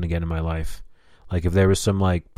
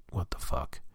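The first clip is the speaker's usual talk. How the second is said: whispered, low aside; muttered disbelief; 6 semitones lower, 15 dB quieter than usual. Acted. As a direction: say it under your breath. Muttered reaction he'd have made.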